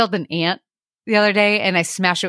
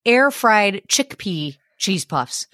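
incredulous; 3 semitones higher, much slower than usual. Real, not acted. Disbelief at husband's purchase.

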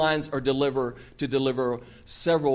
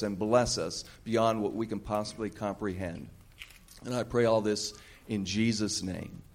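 prayer. Acted. Leads prayer.

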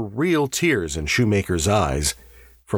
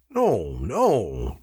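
mild, anxious protest. A narrator's reading. Davies to the man who claims poisoning, protesting. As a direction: deny it earnestly, without raising volume. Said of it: "Davies protested".

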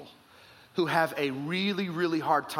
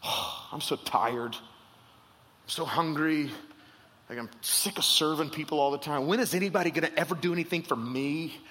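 mock tired grumble. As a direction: sigh it out, self-pitying. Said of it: "thinking to himself".

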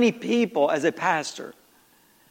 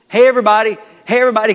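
louder call to gather the team; coach calling out; 2 semitones higher, 7 dB louder, much faster than usual. Retold or imitated. Coach calling the team over to praise a player, louder. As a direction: shout it across the field to gather everyone.

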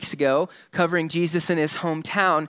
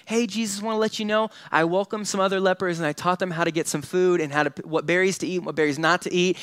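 mock resume speech; faster than usual. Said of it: "explain all of the good things I did".

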